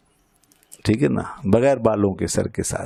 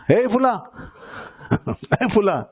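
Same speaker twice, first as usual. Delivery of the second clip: mock parrot screech; 9 semitones higher than usual. Teacher shows how the parrot cried at the dervish, mock screech. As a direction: imitate a sudden cry, pitched right up. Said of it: "اس طریقے سے وہ بولا".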